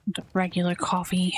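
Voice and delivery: muttered under the breath, unvoiced; whisper. Real, not acted. Barista muttering the order to himself in a whisper. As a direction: whisper it to yourself, grumbling.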